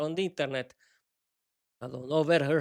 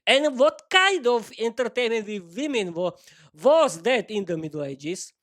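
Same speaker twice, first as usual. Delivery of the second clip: strict question; 4 semitones higher than usual. Acted. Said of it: "sharpened her gaze and looked at him strictly".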